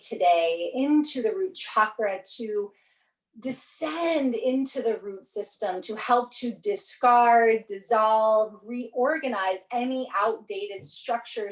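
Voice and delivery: slow, measured guiding voice; guided meditation. Real, not acted. Yoga teacher settling students into their breath, slow guided meditation. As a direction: ease them down slowly, with drawn-out key words.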